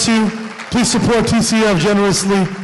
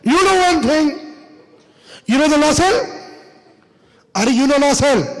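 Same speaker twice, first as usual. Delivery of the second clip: put-on Pakistani accent; 8 semitones higher than usual. Pakistani clerk takes charge of the room, Pakistani accent. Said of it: "That means".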